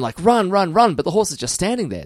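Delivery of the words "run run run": high, loud urging yell; screaming crowd. Acted. Everyone screaming at the horse batsman to go, urgent yell. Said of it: "everyone's screaming".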